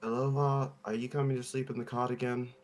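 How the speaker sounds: a lightly voiced bad Russian accent for Zai; mock Zai asking about the cot; imitating Zai. Player fakes Zai's voice to fool the doctor, lightly accented. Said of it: "I'll imitate Zai's voice".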